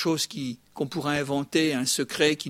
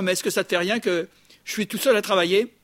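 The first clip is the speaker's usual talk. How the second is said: mildly louder, put-out complaint; indignant Martha; 3 semitones higher, 5 dB louder than usual. Retold or imitated. Martha interrupts Jesus to complain about working alone, mildly indignant. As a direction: confront him with a mock grievance. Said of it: "elle interpelle Jésus, les mains sur les hanches".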